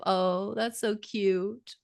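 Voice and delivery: slow, mocking condescension; sarcastic. Mocking the caller's claim, slow and sarcastic. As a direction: drag it out like patting a child.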